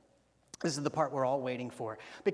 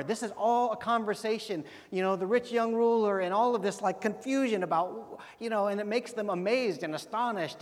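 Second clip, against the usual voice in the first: animated recap; 4 semitones higher, 4 dB louder than usual. Real, not acted. Energetic recap to congregation.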